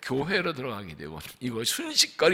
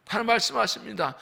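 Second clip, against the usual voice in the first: ordinary talk, nothing marked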